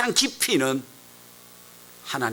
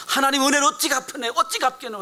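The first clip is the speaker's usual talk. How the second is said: high-pitched, impassioned cry to God; imitated fervent prayer; 13 semitones higher than usual. Preacher voices a leprosy patient praying while pounding the ground, high fervent plea. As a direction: mimic a desperate pleading prayer in dialect. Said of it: "땅을 치면서 기도하더랍니다".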